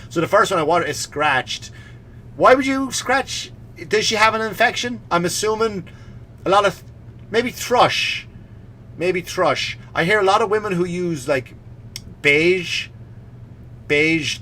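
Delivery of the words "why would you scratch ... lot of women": high puzzled musing. Real, not acted. Mock concerned musing.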